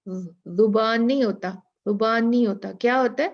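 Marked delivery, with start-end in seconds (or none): 0.1-1.5 teasing someone who says زبان wrong; a light correcting tone on نہیں; mild mock correction. People mocking a learner's mispronounced z. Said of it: "اس کا مذاق اڑاتے ہیں". 1.8-2.7 teasing someone who says زبان wrong; a light correcting tone on نہیں; mild mock correction. People mocking a learner's mispronounced z. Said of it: "اس کا مذاق اڑاتے ہیں".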